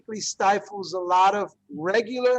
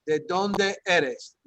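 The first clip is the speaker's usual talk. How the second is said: ¿De dónde eres? said very slowly, each syllable clear; slow demo; 2 semitones lower, much slower than usual. Shown as a demonstration. Teacher modelling the Spanish question slowly for the class. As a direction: spell it out slowly for learners. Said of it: "Like, for example".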